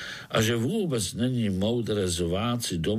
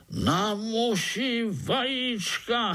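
very high, drawn-out exclamation; incredulous echo; 12 semitones higher, much slower than usual. A narrator's reading. Overseer echoes the spider's words about eggs, incredulous. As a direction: repeat it slowly in high-pitched disbelief.

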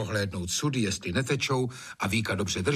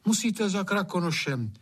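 higher, urging advice; urgent Anče; 9 semitones higher than usual. A narrator's reading. Anče urges the gamekeeper, earnest. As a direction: press him to go.

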